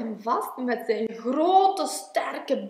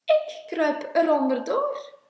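higher, louder little-character voice; calling out; 5 semitones higher, 6 dB louder than usual. A narrator's reading. Klein at an obstacle telling Groot his plan, calling out. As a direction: announce it with a raised voice. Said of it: "riep Klein".

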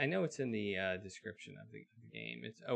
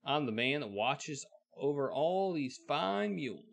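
voicing the man; 4 semitones higher, 5 dB louder than usual. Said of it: "says the man".

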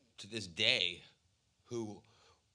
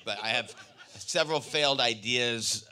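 laughing loudly through the words; a big real laugh while confessing failures; 4 semitones higher, 14 dB louder than usual. Real, not acted. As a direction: speak through open laughter, much louder. Laughs at own flops.

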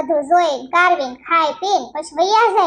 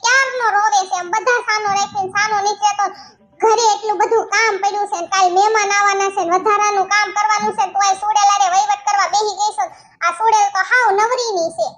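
indignant nagging, pitched up; scolding sister-in-law; 3 semitones higher than usual. Acted. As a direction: keep up the complaint. Sister-in-law keeps scolding her. (નણંદની ચિડાયેલી ફરિયાદ)

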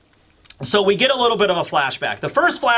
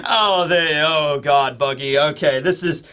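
normal talking voice

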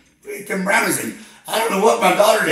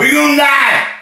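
loud, higher cry of doom; panicked yell; 8 semitones higher, 6 dB louder than usual. Acted. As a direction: scream it in mock terror. Caller panicking on hotline.

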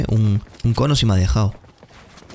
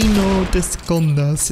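mock taunt; 6 semitones higher, much slower than usual. Taunting enemy in game.

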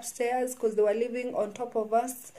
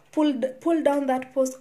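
retelling the lady's furious demand, a bit louder; mock angry order, pushed up a little; 3 semitones higher, 4 dB louder than usual. Lady threatens her over the Facebook post, mildly angry. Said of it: "so furious with me".

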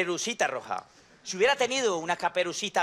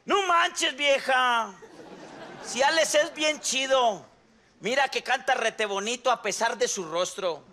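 put-on girl voice; 4 semitones higher than usual. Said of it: "yo soy Caperucita".

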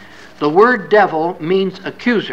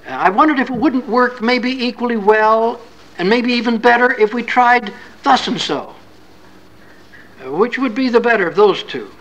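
tentative suggestion; 4 semitones higher than usual. Retold or imitated. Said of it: "They'll start out sort of like that".

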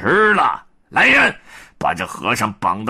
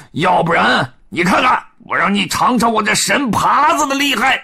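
high, louder swaggering pig voice; blustering challenge; 9 semitones higher, 4 dB louder than usual. Acted. Pigsy threatening the Yellow Robe demon, high blustering shouts.

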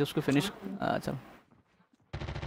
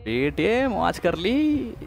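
stretched out, rising higher; drawn-out exclamation; 4 semitones higher, much slower than usual. Real, not acted. Player reacts to an attack from the roof, drawn-out exclamation. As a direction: draw the words out long and high.

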